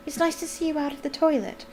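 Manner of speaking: high, forced cheerfulness; falsely bright. A narrator's reading. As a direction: chirp it with fake friendliness. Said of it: "in a falsely bright voice".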